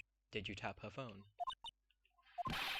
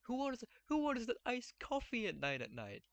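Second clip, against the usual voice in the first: incredulous high; 6 semitones higher than usual. Acted. Lawyer mocks the alibi.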